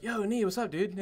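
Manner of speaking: imitated upbeat, high-pitched hello; friendly greeting. Courage walking up to Neo, imitated friendly greeting. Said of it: "he was very friendly".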